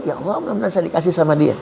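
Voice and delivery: quick, half-laughing mock prayer; mock pleading prayer. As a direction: parody a greedy plea to God, fast. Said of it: "Bapak niat". (doa memelas pura-pura sambil tertawa)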